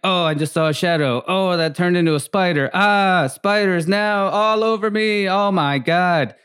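mock panic building from uneasy to a high, slowed-down freak-out; mock rising panic. Imagined bad trip panic.

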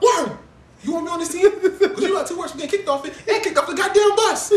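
high, loud coach bellowing at his team; yelling coach. Retold or imitated. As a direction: bark it like an angry coach. Imitating Coach Carter yelling.

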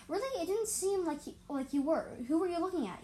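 disbelieving high question; curious surprise. Acted. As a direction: princess questioning a distracted new friend, curious. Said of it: "Earring asked curiously".

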